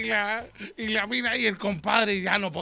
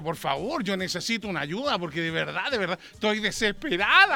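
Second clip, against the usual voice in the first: pleading friend. Acted. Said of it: "le dijo".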